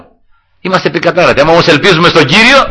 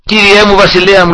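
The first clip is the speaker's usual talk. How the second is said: calling out; 5 semitones higher than usual. Retold or imitated. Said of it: "και άρχισε να φωνάζει".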